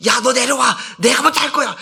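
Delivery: high, pushy mock panic; frantic acted demand. Preacher playing a passenger fighting for the lifeboat, high and frantic. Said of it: "막 그러고 날쳤을 거야".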